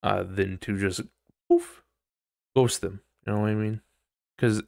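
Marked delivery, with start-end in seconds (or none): 1.5-1.8 high poof. Retold or imitated. Sound of vanishing.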